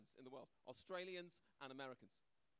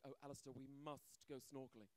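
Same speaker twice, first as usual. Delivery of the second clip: put-on girlfriend voice; 4 semitones lower, 8 dB quieter than usual. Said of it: "the girl ... was like".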